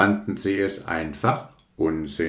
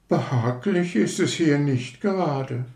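much higher, disdainful rocket voice; sniffy rocket; 8 semitones higher than usual. Acted. Rocket lands in the mud, disdainful. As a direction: complain with wounded pride.

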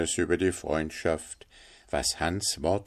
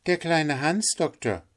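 Hans, higher, calling up to the window; higher, modest reply; Hans answering; 8 semitones higher than usual. A narrator's reading. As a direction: announce himself through the storm.

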